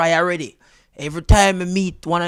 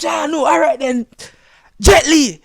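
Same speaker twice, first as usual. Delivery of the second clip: hopeful guess; 10 semitones higher, 6 dB louder than usual. Retold or imitated. Retries with another name.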